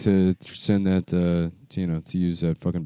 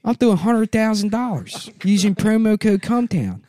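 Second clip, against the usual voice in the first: high, mocking sponsor read; hammed-up high ad voice; 12 semitones higher, 3 dB louder than usual. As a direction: overdo it like a cheesy ad.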